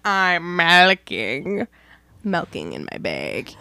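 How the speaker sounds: "milking" drawn out slowly as "melking"; exaggerated regional vowels. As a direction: play up "milking" like melting, as a joke. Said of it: "Like you're melting".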